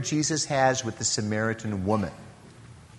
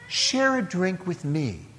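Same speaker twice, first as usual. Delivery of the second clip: softer, gentle offer to share; tender invitation; 2 semitones higher, 6 dB quieter than usual. Shown as a demonstration. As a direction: invite her in, tender and soft. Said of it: "It's a tender invitation".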